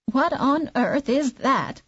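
put-on slow, high surprised old woman. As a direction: ask it slowly as a half-blind old woman. Old woman speaks in the story.

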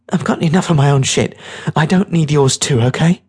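put-on hard girl pushing away someone's troubles; tough girl, fed up. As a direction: shut the kid down, irritated.

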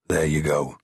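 smug, pleased with himself; triumphant. A narrator's reading. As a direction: say it like you've won. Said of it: "said D L triumphantly".

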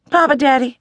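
high, sing-song call to Papa Daddy; Stella-Rondo calling sweetly to her grandfather; calling Grandpa. A narrator's reading. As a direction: wheedle for his attention.

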